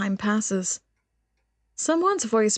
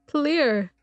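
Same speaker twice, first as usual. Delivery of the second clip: celebrating; 5 semitones higher than usual. Real, not acted. First cheer on clearing.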